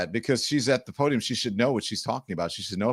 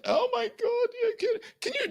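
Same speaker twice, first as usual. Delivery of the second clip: mock crying white lady; 4 dB quieter than usual.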